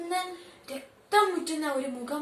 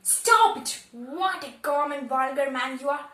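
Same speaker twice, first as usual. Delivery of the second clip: angry shout; 5 dB louder, much slower than usual. Acted. Wife yelling at her husband to stop, furious shout. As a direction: yell it to cut him off.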